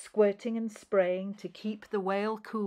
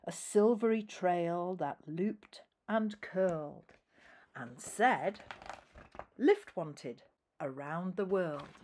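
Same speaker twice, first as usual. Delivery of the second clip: gentle read-aloud storytelling; a parent reading rhyming verse to a child; story narration. A narrator's reading. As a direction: read it like a bedtime picture book. Reads picture book aloud.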